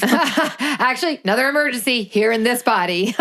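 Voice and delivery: words squeezed out through a high laugh. Real, not acted. Laughing along with her co-host about being sick. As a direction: laugh as you joke about your own body.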